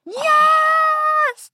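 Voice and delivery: high, loud cry of victory; triumphant shout. Real, not acted. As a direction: cheer like you just won. Her recipe was picked.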